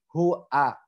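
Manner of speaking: "hu a" as two distinct syllables; clear articulation. Shown as a demonstration. Teacher isolates the syllables, crisp clear "hu a". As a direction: separate "hu" cleanly from "a". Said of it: "harus jelas".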